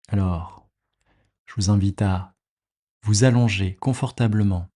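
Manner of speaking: calm, unhurried meditation guide with long pauses; measured body-scan relaxation voice, leaving space after each phrase; guided meditation. Acted. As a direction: guide the listener into rest, phrase by phrase.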